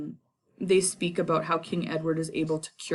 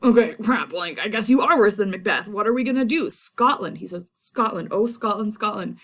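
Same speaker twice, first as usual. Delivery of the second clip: louder, higher anguished outcry; Macduff despairing; 4 semitones higher, 4 dB louder than usual. Retold or imitated. Macduff losing hope in Malcolm, loud anguished lament. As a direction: cry out in despair for Scotland. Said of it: "Macduff's finally like".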